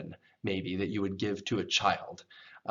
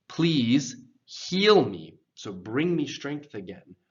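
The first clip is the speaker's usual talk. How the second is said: slow, loud, higher-pitched appeal; imploring plea; 3 semitones higher, 4 dB louder, slower than usual. Acted. Psalm writer asks God for healing, pleading. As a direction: beg God slowly, stretching each word.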